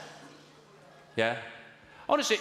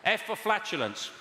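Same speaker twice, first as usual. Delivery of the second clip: put-on Irish accent; 4 semitones higher than usual. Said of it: "Did you put on an Irish accent".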